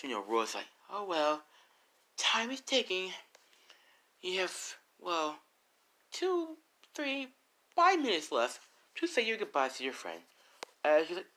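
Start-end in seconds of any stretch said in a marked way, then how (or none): 0.9-10.2 mocking taunt. Roy mocking the doomed girl.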